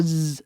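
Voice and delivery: "Z" as a sustained zzz; buzzed Z sound. Shown as a demonstration. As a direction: voice the sound of "Z", not the letter's name. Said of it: "substitute this sound with a".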